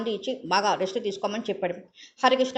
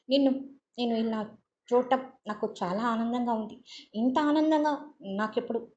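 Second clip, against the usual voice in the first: halting, broken-up phrases, moved; doctor haltingly telling her he is glad to see her; faltering voice; 2 semitones higher than usual. Acted. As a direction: stumble through it with pauses. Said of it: "తోట్రుపాటుతో స్వరంతో".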